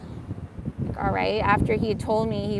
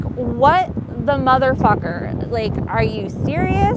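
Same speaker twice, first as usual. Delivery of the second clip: stunned disbelief; 2 semitones higher, 3 dB louder, slower than usual. Retold or imitated. Her disbelief as they drive away.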